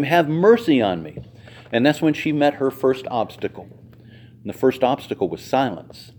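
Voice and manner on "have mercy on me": a slightly raised call for mercy; mock cry out. The mother cries out to Jesus, a mild call. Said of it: "She cried out to him".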